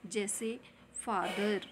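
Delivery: फादर said slowly with a clear फ; फादर, the फ as f sound; pronouncing फादर. Shown as a demonstration. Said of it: "फादर हम हिंदी में लिखेंगे". (फादर धीरे, फ़ की ध्वनि के साथ)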